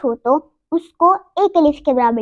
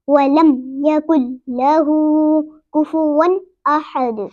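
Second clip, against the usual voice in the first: slow, measured recitation with drawn-out vowels; Quran recitation; much slower than usual. Shown as a demonstration. Teacher reads the whole surah to learners, slow recitation. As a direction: recite the surah deliberately, bouncing each verse ending. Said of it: "सूरतुल इखलास पूरी पढ़कर सुनाऊंगी".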